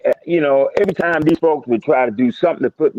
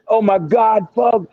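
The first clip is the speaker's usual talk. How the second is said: mock panicked partner on the phone, high-pitched; imitating scared, breathless; 6 semitones higher, slower than usual. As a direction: retell his frantic cry in a raised pitch. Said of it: "He's all out of breath. He's, he's scared".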